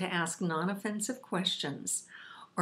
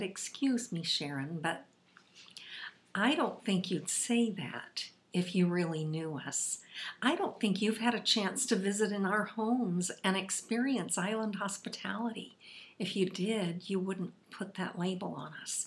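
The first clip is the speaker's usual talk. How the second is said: mock courteous, respectful, very polite tone. Retelling a student's answer to an insult: imitating someone speaking very politely. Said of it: "very politely she said".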